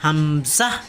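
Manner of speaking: হামজাহ with a rising "zah"; emphatic final zah. Shown as a demonstration. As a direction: hum the m of হামজাহ, then release "zah". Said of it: "ঝাহ উচ্চারণটা হবে".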